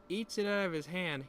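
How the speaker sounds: usual speaking voice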